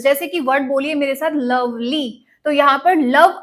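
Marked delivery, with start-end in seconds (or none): 1.3-2.3 लवली split, with more energy on लव; stress on first syllable. Shown as a demonstration. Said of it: "पहले आप stress ज्यादा दे रहे हैं".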